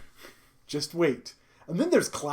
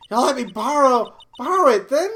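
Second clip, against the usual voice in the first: lightly hammed-up stammering request; a hint of breathless old woman; winded old lady; 6 semitones higher, 6 dB louder than usual. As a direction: ask haltingly in a raised, louder character voice. Voicing winded old lady pleading.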